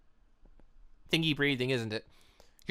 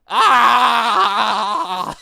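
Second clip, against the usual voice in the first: loud, high raw scream; Yang screaming; 6 semitones higher, 13 dB louder than usual. Acted. Yang losing control, a loud high scream. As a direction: let out a full-throated scream. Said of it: "that was Yang screaming there".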